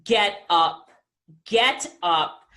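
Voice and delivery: lightly voiced deep urging; a hint of a booming mentor; Les Brown urging. Friend Les Brown urging her off the sofa, lightly deep. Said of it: "then he says".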